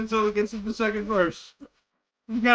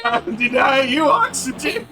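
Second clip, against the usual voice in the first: laughing while quoting; 3 semitones higher than usual. Real, not acted. Player echoes game line laughing.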